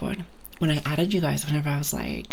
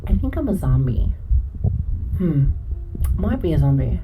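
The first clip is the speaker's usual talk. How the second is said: zombie voice; 6 dB louder than usual. Real, not acted. Loud groaning zombie joke.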